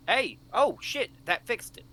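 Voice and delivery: loud, high burst of joy; excited. Real, not acted. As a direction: shout out in sudden delight. Voice bot suddenly works.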